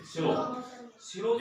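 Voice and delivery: high, drawn-out स्लो; slow. Shown as a demonstration. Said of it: "थोड़ा स्लो motion में अच्छी लगती है".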